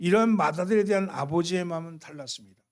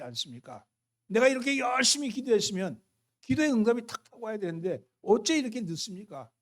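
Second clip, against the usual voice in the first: mock cry to God; 3 semitones higher than usual. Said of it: "하고 소리 지르지는 않습니까".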